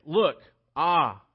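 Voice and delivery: excited bride. Acted. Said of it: "that's what she's saying".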